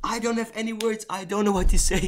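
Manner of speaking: high-pitched, helpless disbelief; incredulous after yet another loss; stunned disbelief. Real, not acted. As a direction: pitch it up, lost for words. Speechless after losing again.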